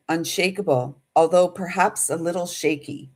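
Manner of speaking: slow, measured oracle voice with pauses; channeled message reading. Acted. To her viewers, reading out a channeled message, slow and solemn. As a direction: intone it like a message from spirit.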